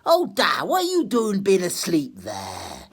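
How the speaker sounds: lightly voiced bright young woman; young daughter voice.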